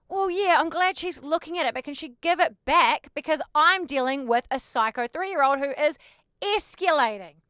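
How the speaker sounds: barely polite frustration; exasperated retort. Retold or imitated. Telling the dad to get the ball back, exasperated.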